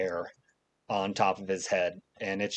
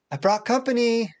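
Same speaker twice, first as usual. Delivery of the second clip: high, raised calling voice; 11 semitones higher, 4 dB louder than usual. Acted. Mother telling her son she brought a guest, called high. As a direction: announce the guest through the house.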